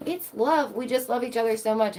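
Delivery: high mocking lovestruck voice. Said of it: "where you're like".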